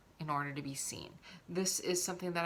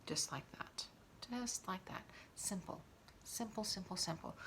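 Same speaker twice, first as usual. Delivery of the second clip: murmured to herself; 9 dB quieter than usual. Real, not acted. Murmuring to herself while applying.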